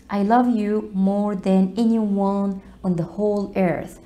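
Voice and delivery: slow, careful example reading; slow model sentence. Shown as a demonstration. Teacher reads the romantic example slowly. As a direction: lay out each word slowly. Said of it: "example sentence read slowly".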